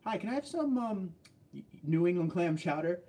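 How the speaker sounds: imitating a tourist ordering chowder in New England. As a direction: play the lost visitor asking sweetly. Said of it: "some of the words they pronounce".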